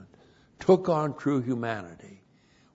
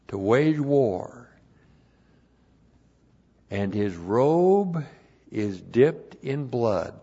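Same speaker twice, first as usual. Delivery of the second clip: emphatic point read-out; 4 semitones higher, 5 dB louder than usual. Real, not acted. Preacher reading out the twelfth point, deliberate and emphatic. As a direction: spell out the point with weighty pauses. Reads out next numbered point.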